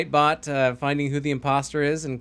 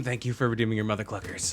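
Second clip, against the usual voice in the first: goat voice; 5 semitones lower, 6 dB quieter, faster than usual. Pretend. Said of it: "here's the goat scream".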